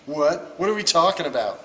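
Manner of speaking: talking with a mouthful; words round a bite of food; mouth full. Real, not acted. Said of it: "my mouth is too full of zinger".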